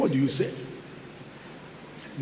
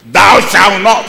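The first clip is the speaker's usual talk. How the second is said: loud stern commandment; commanding shout; 3 semitones higher, 6 dB louder than usual. Acted. Preacher voicing the law's command.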